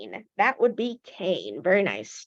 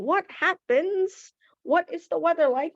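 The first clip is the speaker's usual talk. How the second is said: curious question; 8 semitones higher than usual. Shown as a demonstration. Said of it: "teacher asking the class".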